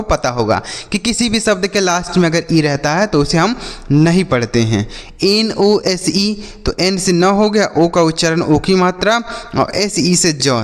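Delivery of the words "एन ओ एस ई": एन ओ एस ई, every letter spaced and drawn out; slow letter-by-letter spelling. Shown as a demonstration. Teacher spelling a word slowly for children, slow and spaced. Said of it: "तो इसे नोज पढ़ेंगे".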